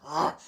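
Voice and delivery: loud throaty "ugh" noise; mimicked sinus clearing. Irritating roommate clears his sinuses at bedtime, mimicked loud grunt. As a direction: imitate clearing blocked sinuses noisily.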